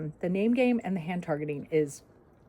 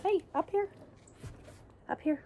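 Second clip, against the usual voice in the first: high coaxing call; firm dog commands; 11 semitones higher, 4 dB quieter than usual. Real, not acted. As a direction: coax the puppy up. Calling puppy back up.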